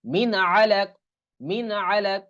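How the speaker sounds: slow "min alaq" with unheld n; clear "min" before ain. Shown as a demonstration. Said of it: "কিরকম উচ্চারণ হবে". ("মিন"-এর নুন স্পষ্ট রেখে পড়া)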